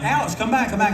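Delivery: high, urgent mock call; retold calling out. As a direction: act out calling after someone running off. Calling after fleeing friend.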